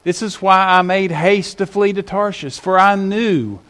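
Jonah complaining to God. Acted. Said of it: "he prayed to the Lord and said".

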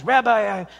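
put-on exasperated Jewish man, amateur accent. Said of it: "There's my Jewish accent. Sorry, the best I can do".

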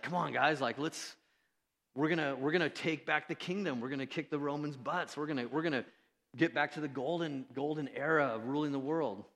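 mock Peter rallying the disciples to fight; fired-up rally. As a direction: rouse the guys like a mock general.

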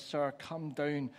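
slow, understated plea; last-ditch plea. Retold or imitated. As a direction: plead slowly, holding the desperation in. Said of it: "last-ditched attempt".

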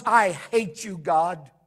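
mock scream building to a loud peak; retold rage rising line by line. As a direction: start contained, climb to an imitated shout. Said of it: "began to scream at the top of my lungs".

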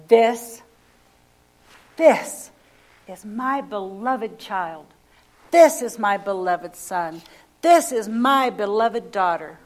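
lightly voiced father claiming his child; proud father. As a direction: announce your child with pride. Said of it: "Hear the pride. Hear how he claims him".

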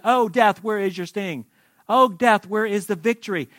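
mild taunt at death, strong attack on "Oh". Acted. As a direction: challenge death with a pointed question. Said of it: "He's taunting death".

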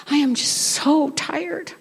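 slow, worn-out repeat of the complaint; slow weary complaint. Retold or imitated. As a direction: drag out slowly and tired. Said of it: "One of the things I found myself saying a lot is".

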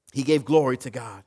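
usual speaking voice

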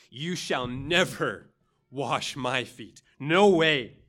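slow, firm refusal bursting loud on "No way"; indignant Peter. Acted. Peter refusing Jesus' foot washing, indignant and loud. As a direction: dig in on never, then blurt the refusal. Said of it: "But Peter gets indignant".

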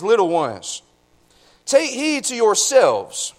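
measured, emphatic Bible reading; scripture reading. Acted. Preacher reads Jesus's warning to the congregation, emphatic scripture reading. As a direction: read out scripture with full projection.

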